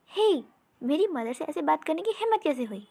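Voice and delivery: a touch of princely anger; mild indignant scolding. Acted. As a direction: rebuke the healer for his mother's sake. Prince scolds healer for mother.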